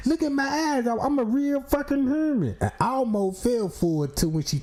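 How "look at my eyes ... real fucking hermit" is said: lightly voiced clone woman. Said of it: "And she telling me".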